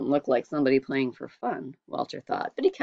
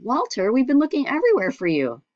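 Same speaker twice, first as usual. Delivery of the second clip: louder, anxious calling; father calling out; 9 semitones higher, 4 dB louder than usual. A narrator's reading. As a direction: call across the crowd for the lost son. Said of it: "his father called".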